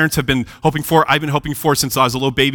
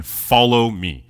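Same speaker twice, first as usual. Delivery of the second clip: slow solemn call; 2 semitones lower, much slower than usual. Acted. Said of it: "He tells him".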